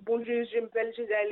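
"Bonjour, je m'appelle Giselle" said the French way, nasal bonjour; a native French greeting; proper French accent, lightly done; French pronunciation. Shown as a demonstration. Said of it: "whereas, you know, in English".

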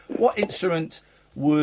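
softened, spaced-out dictation to self; typing aloud. Real, not acted. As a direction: say the words as you type them. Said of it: "I'm just typing it".

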